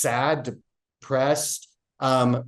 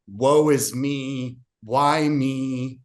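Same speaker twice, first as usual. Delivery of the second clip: mock self-pitying victim; much slower than usual. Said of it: "this useless victim".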